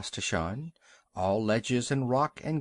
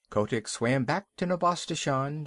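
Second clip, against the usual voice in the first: ordinary delivery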